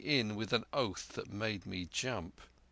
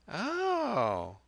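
put-on sly old pirate; 12 semitones higher than usual. Black Dog voiced in story.

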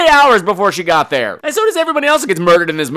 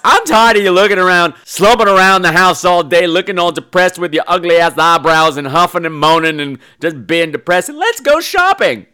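fed-up daughter; 3 dB louder than usual. Acted. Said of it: "Her daughter decides".

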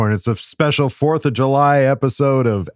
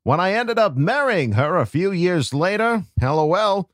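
Peter Griffin voice. Acted. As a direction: read the letter as a goofy cartoon dad. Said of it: "J Rob asked for me to do a Peter Griffin voice".

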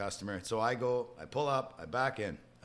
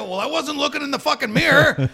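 laughing retort; 13 semitones higher, 10 dB louder than usual. Retold or imitated. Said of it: "I go".

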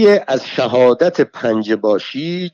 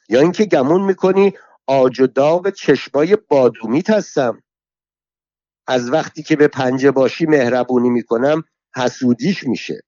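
put-on furious old woman; 4 semitones higher than usual. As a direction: spit the curses at him like a street brawler. Alaviyeh berates Agha Muchul.

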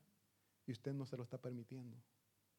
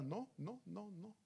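stubborn refusal; 3 semitones higher, 6 dB quieter, slower than usual. Retold or imitated. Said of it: "necio yo".

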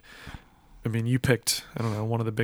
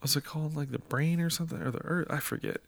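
whispering; 4 semitones higher, 9 dB quieter than usual. Real, not acted. Muttering while searching memory.

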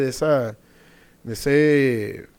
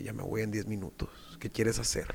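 soft, lower retold line; quoting the girl; 5 semitones lower, 13 dB quieter than usual. Girl cornering him in the bathroom, quoted softly. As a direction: quote her quietly, pitched down.

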